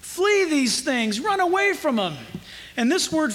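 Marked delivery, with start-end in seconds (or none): 0.0-2.1 Paul's urgent plea. Acted. Preacher voices Paul warning Timothy, mildly urgent. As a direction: mildly urge him to get away, pitch lifting. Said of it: "and he pleads".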